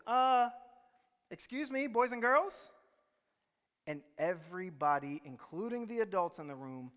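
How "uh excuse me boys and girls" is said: puzzled calm. Retold or imitated. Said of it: "in a puzzled, calm voice".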